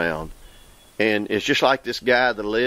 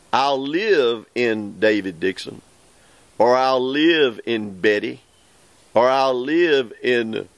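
emphatic scripture reading. Acted. Preacher reads God's promise to his listeners, emphatic and measured. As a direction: read it out to the congregation, leaning on key words.

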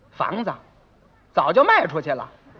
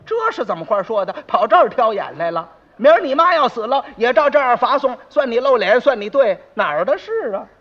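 scolding that climbs louder; snubbing rebuke; 3 dB louder than usual. Acted. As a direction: tell off a fault-finder indignantly. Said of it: "得，顶头一顶". (没好气地顶回去)

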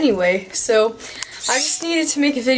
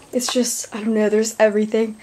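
out of breath; 2 semitones lower than usual. Real, not acted. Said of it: "I'm so out of breath".

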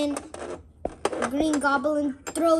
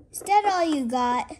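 higher-pitched mock challenge; play taunt; 4 semitones higher, 4 dB louder, faster than usual. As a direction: goad the fallen villain, playfully. Spider-Man taunts in play fight.

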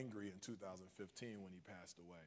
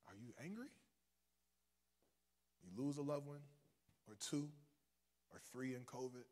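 hushed, low pastoral questioning; soft reflective preaching; 3 semitones lower, 9 dB quieter than usual. Real, not acted. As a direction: let each question land softly, with pauses. Soft, searching questions to congregation.

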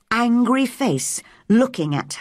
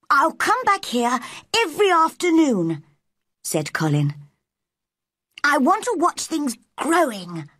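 put-on high-pitched young boy's voice; eager boy; 8 semitones higher than usual. A narrator's reading. Narrator voices boy Colin.

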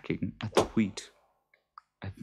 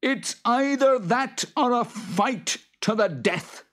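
growling; 6 dB louder than usual. Acted. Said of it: "growled the Boggart".

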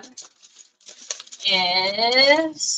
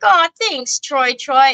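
tender aww; 3 semitones higher, slower than usual. Retold or imitated. Mom retells son feeding her.

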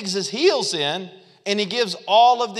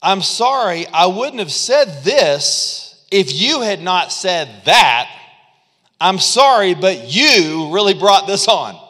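louder, slow, accusing sorry; defensive apology; 2 semitones higher, 5 dB louder, slower than usual. Retold or imitated. Defensive apology turning the tables, mock angry. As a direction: blame them back, mildly heated. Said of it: "The defensive apology".

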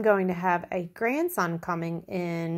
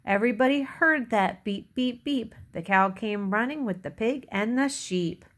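put-on measured read-aloud for little children; story narration; 2 semitones higher than usual. A narrator's reading. Reader tells children about Little Blue Truck, storytelling. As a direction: read it out like a picture book. Reads picture book to children.

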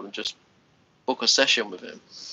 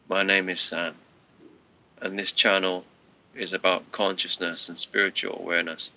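a touch of a robot reading; automated robotic voice; 3 semitones lower than usual. Shown as a demonstration. Mocking his own channel intro, lightly robotic. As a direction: recite it like a tired recording. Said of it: "in a very automated, robotic voice".

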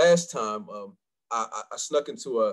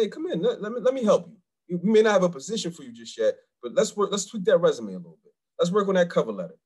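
lightly raised, upbeat helper voice; welcoming employers; 7 semitones higher than usual. Retold or imitated. Retelling how employers welcomed him, upbeat. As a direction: mimic a friendly offer to help. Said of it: "they say".

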